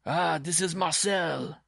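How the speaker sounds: high, slow, delighted exclamation; pleased guess to himself. A narrator's reading. Simon hears footsteps on the stairs, pleased. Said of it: "he told himself".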